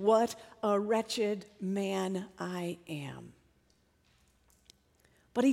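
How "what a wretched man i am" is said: slow, hushed, near-whispered self-reproach; quiet despair, drawn out word by word; voice of condemnation. Acted. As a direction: let each word sink, very softly. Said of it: "Paul knew the voice of condemnation".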